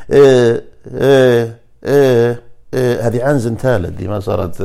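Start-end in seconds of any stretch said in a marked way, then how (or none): 0.1-2.4 إيه repeated on shifting Chinese tones; Chinese tones demo. Shown as a demonstration. Explaining tones to listeners, إيه on changing tones. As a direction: voice إيه on one tone after another. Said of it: "كانوا كلهن".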